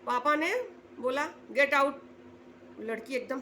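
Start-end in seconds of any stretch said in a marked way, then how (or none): 1.5-2.0 a firm, louder order to leave; retold father snapping at his daughter; angry get out.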